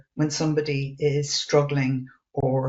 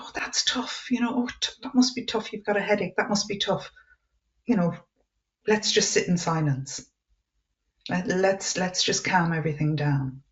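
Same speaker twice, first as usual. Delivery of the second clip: empathetic response; 3 dB quieter than usual. Shown as a demonstration. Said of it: "you kind of go".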